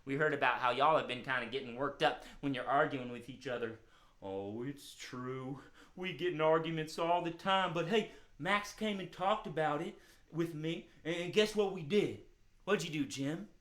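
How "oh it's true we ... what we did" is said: lightly voiced puppet dog, a bit low; a hint of an easygoing hound character; friendly hound dog. Calmed dog thanking children for helping, friendly hound voice.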